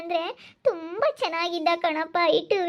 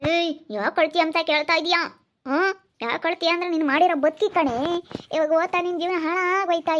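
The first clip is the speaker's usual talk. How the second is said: indignant retort, hammering the words; acted parental outburst; angry scolding; 4 dB louder than usual. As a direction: scold the daughter sharply for asking.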